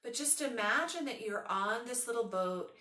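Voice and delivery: unhurried yoga nidra guidance with long pauses; guided meditation. Acted. Leads a guided relaxation.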